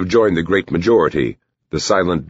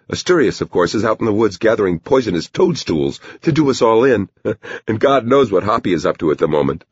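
higher-pitched woman's voice, complaining; grumbling Bonnie; 7 semitones higher than usual. Acted. Bonnie complains to the doctor about missing townsfolk, grumbling. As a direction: list the absentees in a high, put-upon voice.

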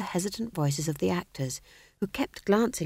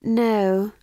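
drawn-out, weary "no"; higher, long-suffering tone; 6 semitones higher, 5 dB louder than usual. A narrator's reading. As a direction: let it out with tired patience. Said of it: "said Magrat wearily".

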